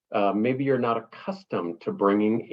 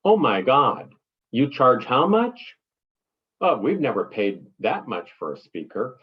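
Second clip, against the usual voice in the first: shocked client. Retold or imitated. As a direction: play the shocked buyer hearing the fee. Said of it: "Number one, shock".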